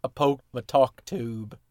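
slow quoted character line; lightly voiced character, drawn out; Joe Jack line. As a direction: deliver the quote slowly, word by word. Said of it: "it's a Joe Jack line".

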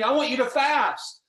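high-pitched, emphatic retold order; imitated urgent instruction; acted divine command. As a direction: voice a command from God, pitched right up. Voices God's command in story.

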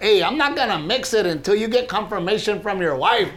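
lightly hammed-up bro; Pollito voice. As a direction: wag a finger at the husband. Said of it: "And he's like".

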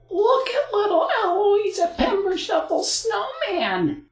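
high, slow mocking kids' voice; taunting children. A narrator's reading. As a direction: jeer like cruel children. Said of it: "the other children cackled".

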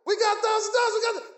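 high, loud jubilant yell; joyful shouting. Retold or imitated. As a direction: shout the good news. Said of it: "I was shouting and jumping".

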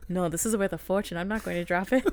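weird, badly done Scottish accent; half-successful imitation of a Scottish accent; attempted Scottish accent. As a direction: try a Scottish accent and don't quite nail it. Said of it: "I'm trying to do a Fitz accent".

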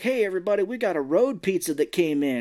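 lightly acted lab guy calling out; retold announcement. Imitating a guy bursting in.

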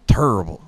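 TERRIBLE said as "turrible". Shown as a demonstration. Showing friends the slang spelling, TERRIBLE as "turrible". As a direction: swap the first vowel of TERRIBLE for an ur sound. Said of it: "U instead of the E".

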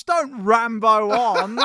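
chuckling through the words; laughing as he says it. Real, not acted. Laughing at the chaps' Rambo pun.

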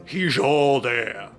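mimicking the player. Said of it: "in your voice".

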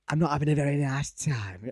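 imitating a northern English kid from a meme; northern meme boy. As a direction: do the meme boy's northern accent. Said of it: "he's, uh, very northern".

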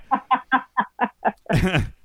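laughing hard at a friend; a long burst of laughter. Real, not acted. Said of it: "Why are you laughing at me?".

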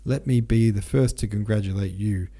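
mock-bowing smugness; smug grin. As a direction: lay on the smarmy charm. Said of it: "shit-eating grin on his face".

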